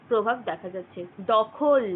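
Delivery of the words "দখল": দখল said loud, the অ after খ clearly voiced; demo pronunciation. Shown as a demonstration. Teacher showing students the অ inside দখল, loud and careful. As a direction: sound out দখল, letting খ carry its অ. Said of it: "খ উচ্চারণ হচ্ছে কিন্তু তার সাথে".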